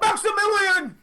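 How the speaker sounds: high, loud, laughing shout of the name; laughing exclaim. Real, not acted. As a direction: blurt the full name out with glee. Shouting out the user's full name.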